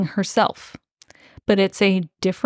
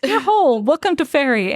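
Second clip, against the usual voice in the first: Lord Hallivale; 5 semitones higher than usual. Retold or imitated. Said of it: "Lord Hallivale strides into this".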